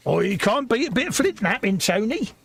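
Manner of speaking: high, put-on accent of the Time Team digger; a hint of a mixed-up country accent; mystery accent. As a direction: lightly ham an odd rural accent. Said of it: "I don't know what that accent was either".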